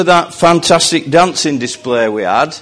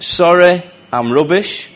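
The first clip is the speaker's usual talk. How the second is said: Lee accent; 4 semitones higher than usual. Shown as a demonstration. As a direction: say it in a Lee accent, rising at the end. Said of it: "accent, like".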